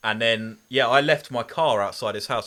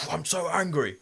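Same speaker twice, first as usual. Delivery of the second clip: Martin the Martian voice; 5 semitones higher, 4 dB quieter than usual. Retold or imitated. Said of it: "Martin the Martian".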